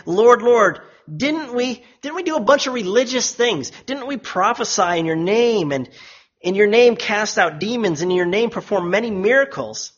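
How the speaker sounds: acted self-justifying protest; protesting plea. The rejected plead their religious record.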